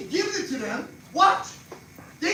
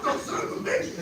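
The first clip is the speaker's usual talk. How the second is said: Jersey curse; 9 semitones higher than usual. Retold or imitated. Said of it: "Me, I say pissed off".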